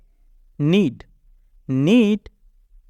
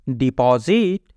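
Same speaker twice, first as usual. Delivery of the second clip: slow careful repeat; 4 semitones lower, slower than usual. Shown as a demonstration. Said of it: "teacher repeats word".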